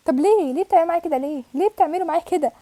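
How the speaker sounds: pleading lament; anguished wail. Real, not acted. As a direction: cry out at the unfairness. Lamenting the loss.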